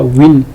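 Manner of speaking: teacher sounding out tanwin; demo syllable win. Shown as a demonstration. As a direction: Win with nasal n ending. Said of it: "on va lire quoi?".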